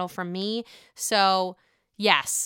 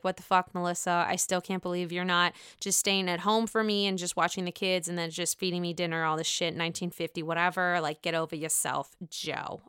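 lower, softer muttered mock rant; Joe's inner voice; 5 semitones lower, 6 dB quieter than usual. Joe's imagined inner grumbling at Melissa. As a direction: grumble it under your breath. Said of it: "deep down he's like".

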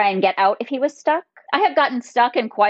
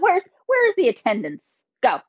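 mom voice. Acted. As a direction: snap it like a strict mother. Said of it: "Did you hear just my mom voice come out?".

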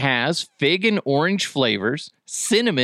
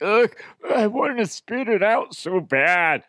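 retold disgust; 7 semitones higher than usual. Retelling his reaction to gizzards.

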